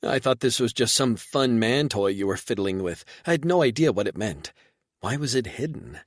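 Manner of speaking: woman piecing it together; light puzzled female voice; lightly voiced woman. Reba questioning.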